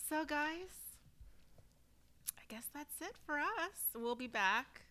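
breathless after laughing; out of breath, catching air between words. Real, not acted. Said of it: "I'm out of breath".

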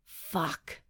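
soft hiss through clenched teeth. A narrator's reading. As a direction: bite it off quietly. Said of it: "I hiss through clenched teeth".

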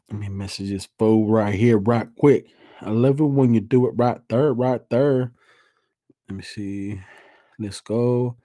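heavy breathing between words; audibly short of breath; shallow breathing. Real, not acted. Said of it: "Sorry, excuse the breathing".

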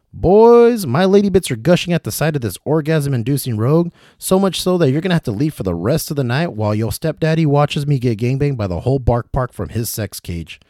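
mom's voice. Acted. The speaker voicing his mom, proud and shameless.

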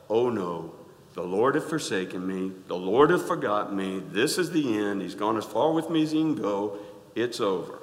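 a touch of glum Eeyore whining; lightly moaning it's over; mild mock despair; mopey complaint. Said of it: "Yet we will still".

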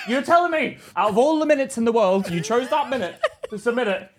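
heated, incredulous mock telling-off; indignant rant, played for laughs; acted angry disbelief. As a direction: scold in exasperated disbelief. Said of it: "I'll be so angry".

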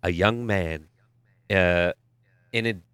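slow, low movie trailer narrator; movie announcer voice. Pretend. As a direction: sell it like a film trailer. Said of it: "I want your best movie announcer voice".

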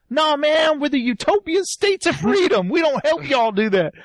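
proud rebel refusing, lightly hammed up; mock defiant refusal. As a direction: turn them down with put-on indignation. Acted refusal by new faction.

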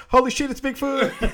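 high, loud mock shout; heckler's yell. Passer-by heckling a tall woman in the background, mock yell. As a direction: holler it like an astonished passer-by. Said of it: "people just yelling at her".

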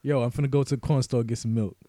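street slang, lightly voiced; mild Ebonics. Shown as a demonstration. Translating into street slang, lightly done. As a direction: slip casually into street talk. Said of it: "Let, let's hear something".

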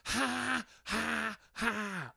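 high, fake forced ha-ha laugh; mock dumb laugh. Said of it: "like that".

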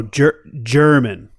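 mock German ranting. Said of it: "this is gonna be Hitler speaking".

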